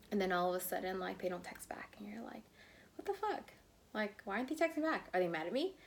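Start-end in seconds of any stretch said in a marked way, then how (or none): 3.0-5.8 panicked disbelief. Retold or imitated. Panicked thoughts over unanswered text.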